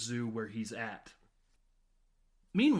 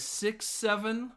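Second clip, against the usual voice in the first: high drawn-out count; 8 semitones higher, slower than usual. Retold or imitated. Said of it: "as he says".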